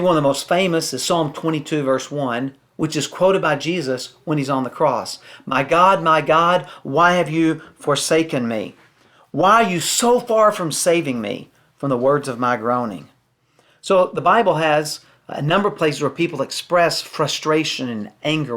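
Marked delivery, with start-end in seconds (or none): 5.5-13.1 scripture reading. Acted. Quotes Jesus on the cross.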